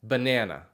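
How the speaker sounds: "Banana" with English vowels. Shown as a demonstration. Teacher repeating the English version for contrast. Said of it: "Do you hear the difference?".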